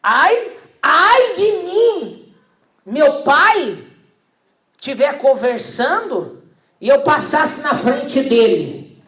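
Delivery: high, loud, slow mock dread; hammed-up fearful son; mock fearful child. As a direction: wail like a scared child of old. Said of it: "Mas, pastor, tinha que ter medo mesmo".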